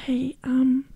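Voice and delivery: gently polite correction, retold; polite mom. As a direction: ask softly and politely, imitating a tactful mom. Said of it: "like, very politely was like".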